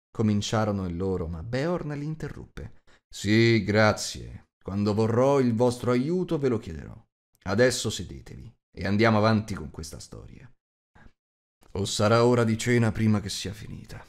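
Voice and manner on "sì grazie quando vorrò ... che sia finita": louder, brusque host cutting them off; a big man with no patience, louder. Acted. Host interrupting the bowing dwarves, louder and brusque.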